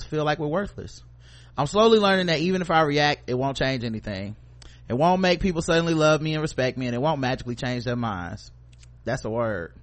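steady, earnest reading voice; reading a quote. Acted. Host reading a self-love quote aloud, earnest reading. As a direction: read it like an inspirational post. Reads motivational text.

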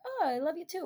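high, soft cooed answer; sweet mimicked reply. Girls answering a friend's love, sweetly mimicked.

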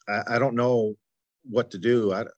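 halting, stumbling over words; stuttering. Real, not acted. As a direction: stammer and restart. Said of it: "here I am stuttering".

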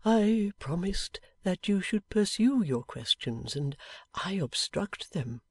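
put-on slow, measured old man's voice; lightly voiced old man, unhurried; gentle old man. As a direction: speak slowly as a patient old man. Plays Riah in story.

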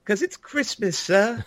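high, silly character voice; hammed-up quote of the line; mock character voice.

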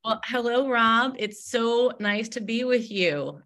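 high, delighted hello; bright warm greeting. Real, not acted. Guest greets host warmly.

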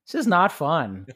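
laughing through the words, pitch rising. Real, not acted. Dad jokes to a fellow dad about dreaded bedtime, laughing.

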